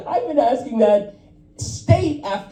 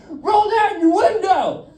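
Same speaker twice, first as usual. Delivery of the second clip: mild mock yell; 7 semitones higher than usual. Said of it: "he starts yelling at me".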